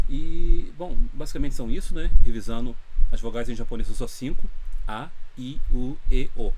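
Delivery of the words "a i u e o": A, I, U, E, O said apart, Japanese style; Japanese vowel review. Shown as a demonstration. Teacher reviewing the five vowels with learners, clear and steady. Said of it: "Do jeito que eu pronunciei".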